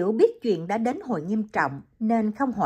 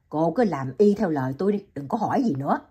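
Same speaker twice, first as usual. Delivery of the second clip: low, firm doctor; 3 semitones lower, faster than usual. Acted. Vũ orders Liễu.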